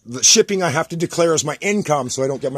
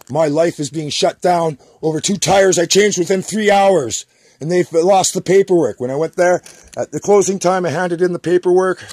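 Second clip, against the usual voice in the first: real angry rant; 3 semitones higher, 6 dB louder than usual. Real, not acted. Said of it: "Oh, I'm so choked".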